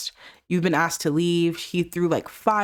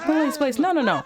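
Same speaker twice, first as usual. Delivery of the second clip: acted pleading; 7 semitones higher than usual. Voicing aunt pleading to stop fight.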